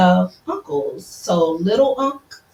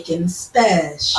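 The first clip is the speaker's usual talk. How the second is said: Jamaican accent; 4 semitones lower than usual. Shown as a demonstration. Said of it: "You gotta say it with the accent".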